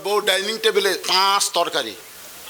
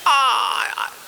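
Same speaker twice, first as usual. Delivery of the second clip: calling out; 6 semitones higher, much slower than usual. Acted.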